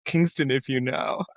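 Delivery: slow, drawn-out teasing imitation; mock humblebrag. Friend mimics mate naming his hometown, slow mock humblebrag. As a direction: draw it out like a smug name-drop. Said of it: "what a douche. That's like saying".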